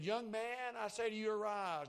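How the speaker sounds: full-voiced Young man, arise; commanding call. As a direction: call the dead man up with authority. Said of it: "And He said".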